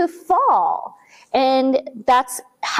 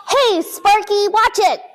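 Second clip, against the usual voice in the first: scolding the dog; 7 semitones higher than usual. A narrator's reading.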